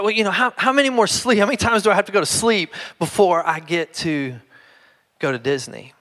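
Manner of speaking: put-on high, patient little girl explaining; explaining child. Young daughter explaining sleeps to dad, high child voice. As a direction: explain it like it's obvious. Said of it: "She's like".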